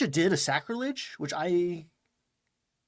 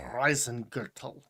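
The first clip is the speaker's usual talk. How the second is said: German accent. Shown as a demonstration. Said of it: "you can hear my German accent now".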